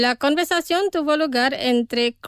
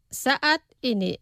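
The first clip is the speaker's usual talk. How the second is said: pronunciación despacio. Shown as a demonstration. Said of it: "Los pronunciaré despacio". (pronunciado despacio, para repetir)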